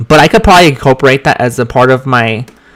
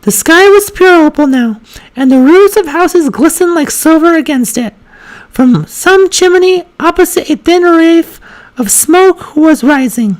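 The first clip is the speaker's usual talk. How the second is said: very high, fluctuating feminine reading voice. Shown as a demonstration. Reading a passage first time in that voice, high feminine voice. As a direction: hold an unsteady high pitch while reading. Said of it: "It's really high feminine voice".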